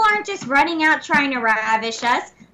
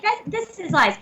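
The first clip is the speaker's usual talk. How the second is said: own chipmunk voice; 2 semitones higher than usual. Acted. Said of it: "This is what I sound like".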